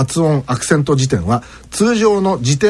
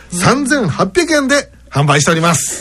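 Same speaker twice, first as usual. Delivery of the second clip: TV shopping pitch; 3 semitones higher than usual. Pretend.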